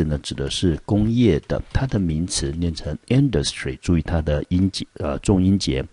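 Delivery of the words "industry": industry with the weight on IN; stress on the first syllable. Shown as a demonstration. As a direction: model industry as IN-dus-try. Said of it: "Industry是在第一音节". (industry重音在第一音节)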